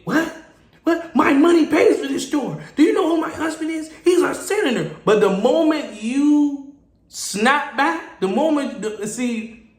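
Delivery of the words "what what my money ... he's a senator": irate customer. Acted. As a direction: pull rank in an outraged, raised voice. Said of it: "getting out of hand and getting irate".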